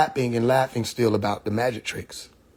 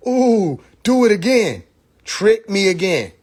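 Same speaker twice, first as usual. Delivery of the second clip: mock eager crowd; 6 semitones higher, 3 dB louder, slower than usual. Mocking the audience wanting tricks.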